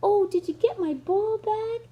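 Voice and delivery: high, eager piggy voice; excited Piggy. Acted. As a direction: call out brightly as the little pig. Reads Piggy in a picture book.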